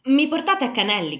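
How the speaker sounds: shouted high and loud to the departing cart; girl yelling after a cart to be taken along, loud and high; shouting. A narrator's reading. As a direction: call out after the girls driving off. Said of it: "gridò Silvia".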